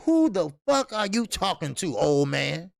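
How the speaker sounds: put-on loud imagined comeback at an old man; mock angry retort. Host voicing his imagined retort to the promoter, mildly angry. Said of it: "'Cause K Q be like".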